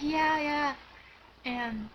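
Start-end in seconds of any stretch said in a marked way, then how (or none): 0.0-0.8 excited yes. Retold or imitated. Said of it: "I was shaking so bad".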